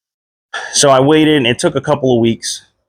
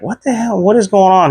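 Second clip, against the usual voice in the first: retold shocked question; 9 semitones higher than usual. Confused patient questioning the doctor.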